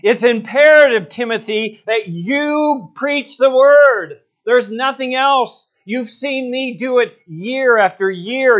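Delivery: high, loud, urgent exhortation, sinking at the end; impassioned charge as Paul. Acted. Paul handing over to Timothy, impassioned and insistent. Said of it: "is like Paul saying".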